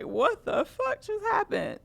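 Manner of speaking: high-pitched mock bewilderment; imitating stunned actress. Actress standing there after the tackle, mock bewildered. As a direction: voice shoots up, as if baffled. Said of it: "standing there like".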